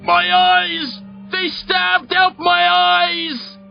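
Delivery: very high, drawn-out screaming; high-pitched wail of a man in a nightmare; frantic scream. A narrator's reading. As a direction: scream in blind agony. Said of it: "A man screams".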